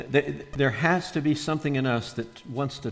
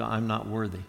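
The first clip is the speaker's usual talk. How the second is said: false humility; 4 dB quieter than usual. Shown as a demonstration. Believer confessing unworthiness, meek and soft. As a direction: shrink into a meek "I'm not worthy". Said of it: "We always default to".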